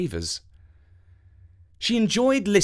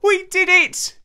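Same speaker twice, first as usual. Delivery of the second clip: high, loud cry of triumph; joyful exclamation; 7 dB louder than usual. Acted. Avenant outside the palace, crying out in triumph. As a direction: shout with joy at success. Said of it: "he exclaimed".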